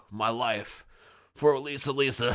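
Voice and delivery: lightly mock a self-sacrificing vow; noble hero. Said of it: "he would just sit here and be like".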